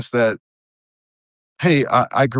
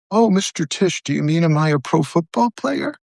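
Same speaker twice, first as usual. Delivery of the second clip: mock naive young woman, higher voice; sarcastic mock reply; 5 semitones higher than usual. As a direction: play dumb to mock the question. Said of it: "I'm sorry, I'm being sarcastic".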